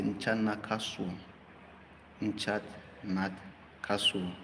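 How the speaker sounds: careful Tiap: Nchan na kasu; spoken slowly as a language example; Tiap sentence. Shown as a demonstration. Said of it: "I will say".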